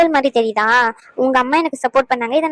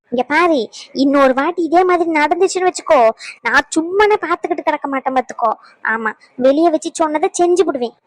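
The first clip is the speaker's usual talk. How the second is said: a lightly voiced stern mother-in-law, nagging; scolding mother-in-law. Mother-in-law nagging the daughter-in-law who skipped meals, lightly stern. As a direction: scold her like a fussy village mother-in-law.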